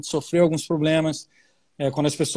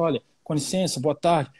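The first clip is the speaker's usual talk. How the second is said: gentler voice; 3 semitones lower than usual. Retold or imitated. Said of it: "a gente chegava com a voz mais mansa".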